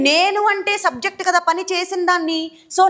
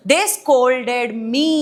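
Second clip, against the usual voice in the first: very slow, word by word; slow dictation; 3 semitones lower, much slower than usual. Shown as a demonstration. Teacher dictating an example sentence very slowly. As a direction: spell it out slowly for the class. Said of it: "So ఇట్లా ఇప్పుడు ఏం చెప్తాము?".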